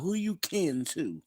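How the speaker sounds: high, slow Southern drawl; high-pitched, unhurried Southern phrasing; Southern accent. Shown as a demonstration. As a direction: stretch it out like Southern folk. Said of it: "how they say down in the South".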